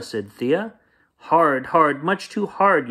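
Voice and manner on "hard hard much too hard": put-on high, loud kid's yell; yelling child. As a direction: bellow it like a squeezed child. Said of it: "yelled Tate".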